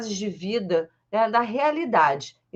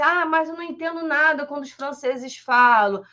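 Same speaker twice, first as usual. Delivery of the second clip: lightly voiced student complaint, pitched up; a hint of a worried student, higher pitch; complaining learner; 5 semitones higher than usual. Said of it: "pra gente que fala assim".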